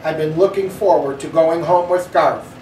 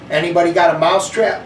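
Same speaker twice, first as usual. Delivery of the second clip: fast, mild snarl; bully mildly snarling about the hamster; faster than usual. Acted. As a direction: toss it off fast like a nasty bully. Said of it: "Bean snarled".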